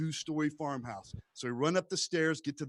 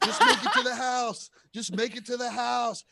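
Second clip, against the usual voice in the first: panicked urging; 9 semitones higher, 5 dB louder than usual. Retold or imitated. Kids running for their lives.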